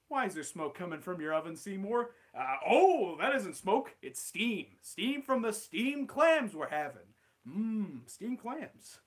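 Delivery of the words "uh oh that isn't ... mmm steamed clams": slow, higher nervous cover-up; Skinner covering. Acted. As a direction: sell the lie with a slow smile. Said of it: "Steamed Ham script".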